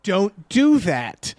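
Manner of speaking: DON'T DO THAT spaced out slowly; slow emphatic warning. Real, not acted. Podcaster warning listeners off a film's advice, slow and emphatic. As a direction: draw out each word of "don't do that" in firm warning.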